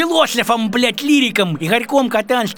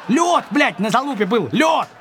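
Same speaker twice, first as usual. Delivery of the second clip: laughing shout; 4 semitones higher than usual. Real, not acted. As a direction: yell it while laughing at him. Exasperated retort to friend.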